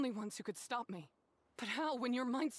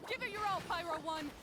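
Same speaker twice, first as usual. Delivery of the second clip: rallying battle cry; 7 semitones higher than usual. Acted. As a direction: push your partner on with everything. Cheering fungus on in battle.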